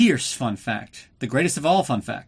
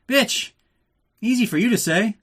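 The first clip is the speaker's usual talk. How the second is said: much higher and louder, scandalized; indignant outburst; 9 semitones higher, 4 dB louder than usual. Real, not acted. Host yelling at the contessa on screen, scandalized. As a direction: yelp it at the screen in mock outrage.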